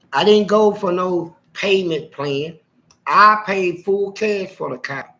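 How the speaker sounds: emphatic. Real, not acted. Stressing he paid cash.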